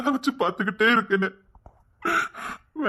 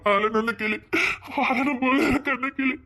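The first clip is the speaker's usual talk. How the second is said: weeping plea. Acted. Husband begging to live with his wife, weeping. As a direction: cry out the wish between sobs.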